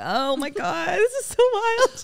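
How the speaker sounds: rising to a high, drawn-out squeal; mock girly amazement. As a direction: play the wide-eyed tourist. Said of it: "being completely facetious right now".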